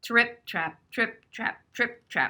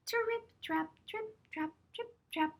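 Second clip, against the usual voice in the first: light steps; 13 semitones higher, 8 dB quieter than usual. Acted. Small goat crossing bridge.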